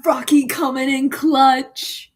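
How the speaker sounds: loud, excited cheer. Real, not acted. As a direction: hype it up, slowing at the end. Cheering along.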